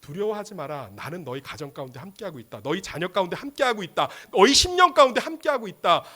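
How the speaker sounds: acted divine encouragement, swelling; building reassurance. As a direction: raise the force with each repeated promise. Voices Jesus reassuring, building in force.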